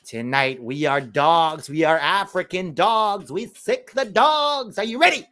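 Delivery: slow chant building to a high yell; mock rallying speech. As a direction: imitate a hammed-up pep talk, climbing in pitch line by line. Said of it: "It was this".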